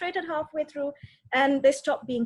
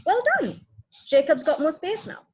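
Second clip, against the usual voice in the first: praising; 3 semitones higher, 4 dB louder than usual. Shown as a demonstration. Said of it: "you could acknowledge it by saying".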